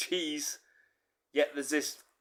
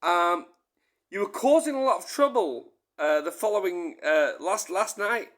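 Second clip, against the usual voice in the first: imitating girlfriend; 5 semitones higher, 4 dB louder than usual. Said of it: "She goes".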